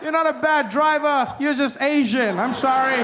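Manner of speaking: loud, high mock apology; flustered, high-pitched backtracking; over-apologetic. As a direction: gush a hammed-up apology. Imagined apology to Asian driver.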